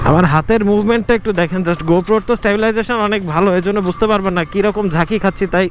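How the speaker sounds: on a bumpy road. Real, not acted. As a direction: voice shaking from the bumps. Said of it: "আমার ভয়েসের দিকে একটু লক্ষ্য রাখলেই বুঝতে পারবেন".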